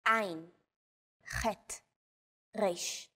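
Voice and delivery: Ein, chet, resh made deep at the back of the throat. Shown as a demonstration. Tutor showing the guttural letters. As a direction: push each sound back into the throat. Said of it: "pronounced deep in the throat".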